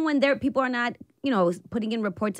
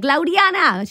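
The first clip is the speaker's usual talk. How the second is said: imitating mom; 7 semitones higher, 7 dB louder, slower than usual. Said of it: "my mom used to be like".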